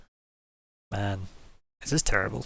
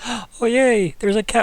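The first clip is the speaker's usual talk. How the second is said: high, louder mock-delighted squeal; imitating excitement; 11 semitones higher, 6 dB louder, slower than usual. Game master mimicking someone spotting the cat, mock excited. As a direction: gasp and gush in mimicked glee. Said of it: "somebody got very excited".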